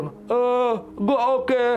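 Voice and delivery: high, strained imitation of an injured friend; retold dazed reassurance. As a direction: act out the hurt friend insisting, pitched high. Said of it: "Terus dia gitu".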